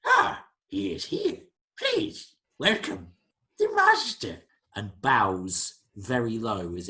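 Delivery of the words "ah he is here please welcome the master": very high creature announcer; Maybe. Acted. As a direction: herald the master as an excited creature. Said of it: "Maybe suddenly goes".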